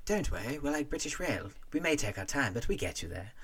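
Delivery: put-on a light British accent; cheery British pilot voice; quoting a jolly British pilot, hint of British accent; mock British. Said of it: "the great line of".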